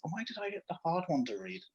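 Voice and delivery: quick, soft grumble through a laugh; laughing complaint. Real, not acted. Reader laughing about her hard passage. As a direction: giggle while protesting the reading.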